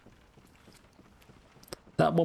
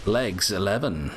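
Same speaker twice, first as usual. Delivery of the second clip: bingo caller. Pretend. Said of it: "Imagine being a bingo caller".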